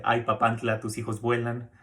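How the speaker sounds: mildly hammed-up cheeky quip; playful Mexican saying. Shown as a demonstration. Teacher showing the double meaning through mild teasing intonation. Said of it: "por la entonación que también le llegamos a dar".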